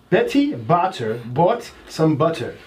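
slow, careful second reading; slow repeat. Shown as a demonstration. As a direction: read it again, word by word. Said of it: "this one says".

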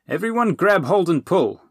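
loud, high urgent shout; yelling. Acted. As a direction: call everyone to pull, hard. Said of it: "Dipple yelled".

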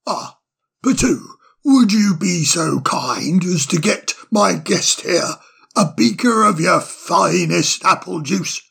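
put-on cheery, fussy old owl voice; bustling, delighted host; jolly old owl. Solly asks Patoo politely.

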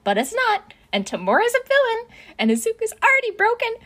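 high, loud, overwrought narration; rising, frantic list of disasters; mounting panic. A narrator's reading. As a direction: narrate as if spiraling into hysteria. Narrator mirrors Izuku's mounting panic.

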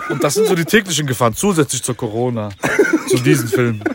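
words through a chuckle; half laughing through the list; laughing while talking. Real, not acted. Joking list of daily dangers.

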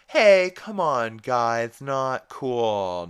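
high, loud mock protest; imitating Lincoln. Recapping the joke, mimics Lincoln in a loud high protest. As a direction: whine it like an offended Lincoln. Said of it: "is like".

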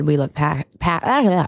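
tripping on the words, breaking off flustered; tongue-tied. Real, not acted. Podcast host botching a quote she is retelling, tongue-tied. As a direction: stumble over the start of the word and give up. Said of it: "I can't speak".

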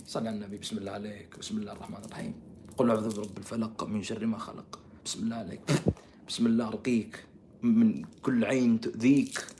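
low, hushed healing recitation; soft, low incantation, tenderly put on; mock soothing prayer. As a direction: murmur a protective blessing over someone. Mock healing prayer over deluded person.

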